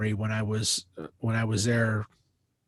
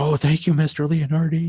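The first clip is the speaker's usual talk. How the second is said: higher, louder relieved gush; overflowing with relief; gushing thanks; 5 semitones higher, 4 dB louder than usual. Retold or imitated. Singer thanking Mister Leonardi after he agrees, gushing.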